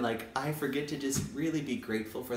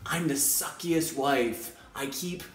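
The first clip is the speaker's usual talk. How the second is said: mock whiny; 4 semitones higher, slower than usual. Voicing a self-critical teacher.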